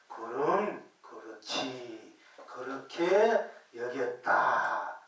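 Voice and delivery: slow, drawn-out chant of "그럼 그렇지"; master's answer chanted slowly and gravely; solemn scripture reading. Shown as a demonstration. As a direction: intone the master's reply like sacred text. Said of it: "다시 한번 읽어드릴게요".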